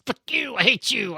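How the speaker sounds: high-pitched, contained tantrum; squeaky-high creature rattling off insults; angry little demon. Acted. Little demon in a bottle cursing its captor, high angry creature voice. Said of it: "flips you multiple birds and then just goes".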